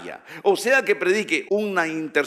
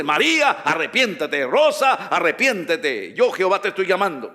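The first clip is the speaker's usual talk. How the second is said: calling names to repentance; emphatic preacher's appeal; prophetic call; 2 semitones higher, 4 dB louder than usual. Acted. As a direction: summon them as God's mouthpiece. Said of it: "transmitirle y decirle".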